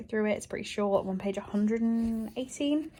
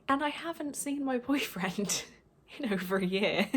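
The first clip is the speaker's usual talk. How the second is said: teary; 2 semitones higher than usual. Real, not acted. Crying over missing boyfriend.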